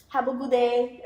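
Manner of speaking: light Hispanic accent, imitating; a hint of Hispanic accent; imitated Hispanic accent. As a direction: say it with a little Hispanic lilt. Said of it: "they'll have, like, that little".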